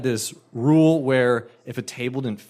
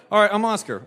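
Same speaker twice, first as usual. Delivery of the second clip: resigned; 8 semitones higher, faster than usual. Retold or imitated. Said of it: "I'm like".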